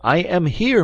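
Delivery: loud call, pitched right up. A narrator's reading. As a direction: holler back to a friend. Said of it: "raising his voice in turn".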